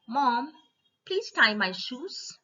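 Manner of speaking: put-on high, slow childlike plea; pleading child. Child asking mom to tie shoes, pleading. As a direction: beg mom sweetly, stretching it out.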